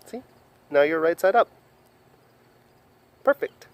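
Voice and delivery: high sing-song coo. Real, not acted. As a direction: coo it brightly to a pet. Baby talk to pet.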